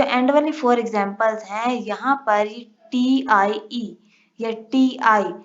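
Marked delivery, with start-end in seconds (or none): 2.9-5.3 slow spelling out. Shown as a demonstration. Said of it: "शीन का sound दे रहे हैं".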